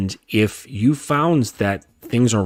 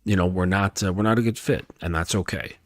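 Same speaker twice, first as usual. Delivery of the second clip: quiet, polite and composed; bow out with class; cordial; 3 dB quieter, faster than usual. Shown as a demonstration. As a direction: exit like James Bond, firm and courteous. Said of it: "In a cordial way".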